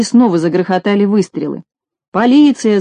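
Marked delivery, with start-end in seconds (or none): 2.1-2.8 mild alarmed shout, a bit higher; startled call of police. Acted. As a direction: cry out the warning. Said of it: "закричал Колосок".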